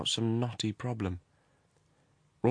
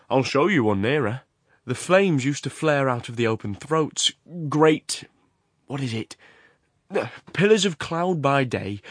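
louder, animated explainer; Horrocks; 3 semitones higher, 5 dB louder than usual. Acted. The works owner explains the furnace cone, animated. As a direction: describe the flames with relish.

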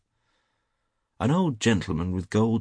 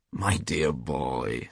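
slow, lower, indulgent drawl; smiling reassurance; 5 semitones lower, much slower than usual. A narrator's reading. Trevor soothing his angry friend, smiling and unhurried. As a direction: say it slowly through a smile.

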